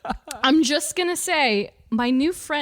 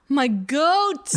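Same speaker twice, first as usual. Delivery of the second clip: hyped announcement; 3 semitones higher, 3 dB louder than usual. Real, not acted. Hyped announcement of favorite character.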